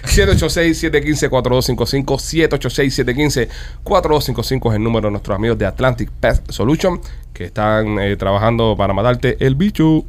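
radio announcer selling pest control; ad read. Acted. Host announces the pest control sponsor, ad voice. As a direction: pitch the sponsor like a radio spot.

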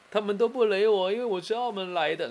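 high, loud tearful wail; crying out that nobody talks to her; retold wailing. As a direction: imitate her bursting into tears. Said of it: "就开始大哭".

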